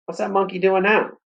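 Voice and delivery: high surprised question. A narrator's reading. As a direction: ask it amazed. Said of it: "In a surprised voice".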